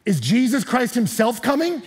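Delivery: slow, laughing disbelief; retelling a passerby's joke with a laugh; amused retold question. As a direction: ask it like you can't believe it, already laughing. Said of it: "And he's like".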